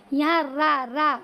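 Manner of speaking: را said light and thin. Shown as a demonstration. Teacher showing the thin را sound. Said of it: "بالکل باریک آواز میں".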